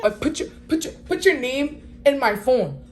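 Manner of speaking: high, laughing imitation of the stylist; laughing mimicry. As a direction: giggle through her line in a put-on voice.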